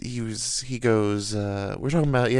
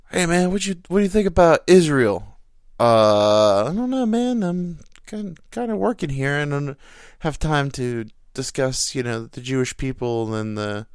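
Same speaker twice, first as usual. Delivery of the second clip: coworker voice; 4 semitones higher, 4 dB louder than usual. Retold or imitated.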